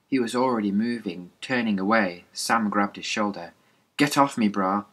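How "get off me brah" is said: angry snap. Acted. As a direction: shove him off verbally. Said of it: "Quinn snapped".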